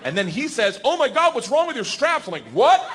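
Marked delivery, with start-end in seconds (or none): 0.8-2.3 high imitated gasp of concern; mock alarm. Instructor alarms comic about straps, high mock-worried exclamation. 2.5-2.8 loud, sharply rising acted yelp; alarmed question. Comic hears straps are wrong, high startled question.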